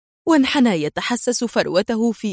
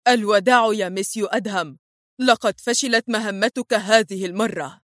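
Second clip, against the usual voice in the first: ordinary delivery, nothing marked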